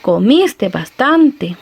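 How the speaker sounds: mild surprise. Shown as a demonstration. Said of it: "terminado un gran banquete y le dice".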